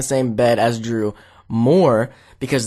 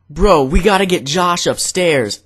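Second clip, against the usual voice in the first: raised, insistent sleep-talker; imitated urgency; 4 semitones higher, 4 dB louder than usual. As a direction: press it on a friend, mock urgent. Imitating frantic sleep-talking friend.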